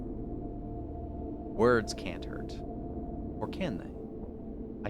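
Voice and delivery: sly prisoner, fading to a whisper; gloat, then hush it; creepy creature voice. Acted. Blind prisoner lecturing on meanness, sly creature voice.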